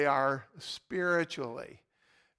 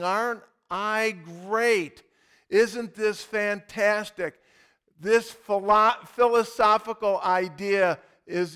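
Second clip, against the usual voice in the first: wooing world; 4 semitones higher, 6 dB louder than usual. Acted. The world wooing believers as the devil would, loudly self-promoting. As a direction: play the tempter, stretching and pushing the words. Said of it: "The world is wooing me and going".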